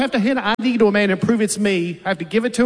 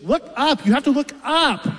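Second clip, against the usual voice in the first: higher, pushy clerk repeating an order; mock DMV clerk insisting on look up; clerk's order; 7 semitones higher than usual. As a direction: imitate the impatient clerk.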